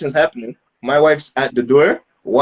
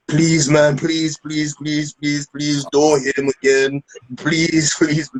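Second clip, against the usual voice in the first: mock pleading; 2 semitones higher, much slower than usual. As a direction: imitate panicked begging, word after word. Acting friends begging him to stop.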